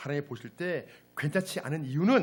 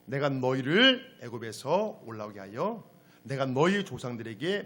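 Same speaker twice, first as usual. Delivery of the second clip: measured, lower-key Bible reading; scripture reading; 3 semitones lower than usual. Acted. Preacher leading the congregation through the day's passage, measured scripture reading. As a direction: read the verse out evenly and soberly.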